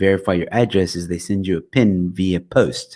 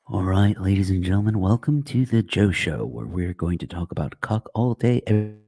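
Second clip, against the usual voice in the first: radio presenter voice. Shown as a demonstration. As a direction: play the smooth radio announcer, half-joking. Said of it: "that's not the best radio voice I can do".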